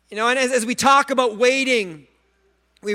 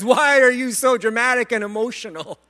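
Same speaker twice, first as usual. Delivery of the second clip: lightly voiced wife teasing; a hint of the exasperated wife; wife's voice; 3 semitones higher, 4 dB louder than usual. Preacher voicing his wife's teasing question, mildly exasperated. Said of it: "my wife says".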